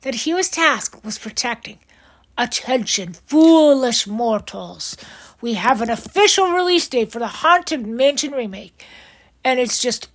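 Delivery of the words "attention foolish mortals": slow eerie whispered ghost host welcome; spooky ghost host. Acted. Haunted Mansion ghost host greeting.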